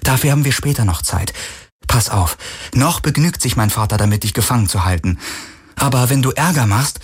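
lightly acted urgent woman's voice; lightly voiced impatient Kirai. Kirai warns captive Galen not to make trouble, impatient. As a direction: cut off questions and warn him, lightly in character.

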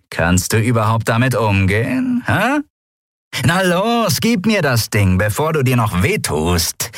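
sneering pirate woman, lightly voiced; pirate mocking the boy with the gun. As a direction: taunt the boy.

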